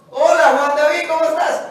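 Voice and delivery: friendly phone greeting. Retold or imitated. Pastor acts a phone greeting.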